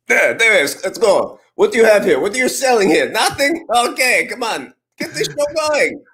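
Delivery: high, put-on Russian old-school marketer; Russian accent. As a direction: push the sale in a thick, high Russian accent. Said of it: "the Russian accent".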